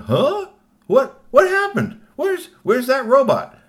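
very high, loud, drawn-out disbelief; startled, slow double-take questions; baffled shock. Acted. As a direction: cry out in bewilderment, voice shooting up. Truckers find the robot gone.

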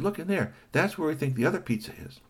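lightly voiced sly Kashi. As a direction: play the sly pizza thief.

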